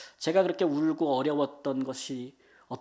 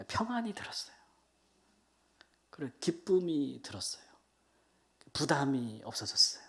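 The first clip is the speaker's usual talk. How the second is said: soft breathy whisper, barely voiced; hushed whisper; 3 semitones lower, 5 dB quieter than usual. Real, not acted. Missionary telling congregation of new peace, whispered. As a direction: whisper it like a secret relief. Testimony of peace after prayer.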